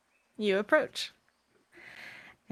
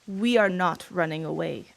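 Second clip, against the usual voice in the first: firm dragon voice; 2 semitones lower than usual. Acted. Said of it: "The firm voice of the dragon".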